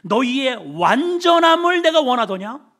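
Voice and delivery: loud, high impassioned divine voice; God speaking. Acted. Preacher voicing God to sinners, fervent and loud. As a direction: plead it out like God himself. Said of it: "하나님은 항상 이렇게 말씀하셔요".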